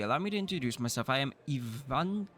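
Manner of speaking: lightly voiced formal high priest. Greeting the new baron, a lightly voiced formal high priest. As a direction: introduce yourself with priestly ceremony.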